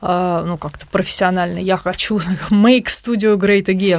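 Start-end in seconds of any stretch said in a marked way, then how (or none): 2.5-4.0 slow, grand campaign-slogan delivery; mock slogan. Joking to her co-host about a studio revival, as a mock slogan. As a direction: play it like a rally chant. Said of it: "joking slogan".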